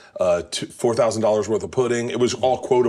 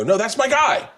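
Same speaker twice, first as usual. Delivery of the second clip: proud fan; 12 semitones higher than usual. Retold or imitated. Proud fan boasting to friends.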